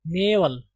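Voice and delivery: "नेवल" with an 'ay' vowel, not 'aa'; सही उच्चारण. Shown as a demonstration. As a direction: model "नेवल" as NAY-vul. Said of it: "ये नेवल पढ़ा जाएगा". ("नेवल" में 'ना' नहीं, 'ने' बोलें)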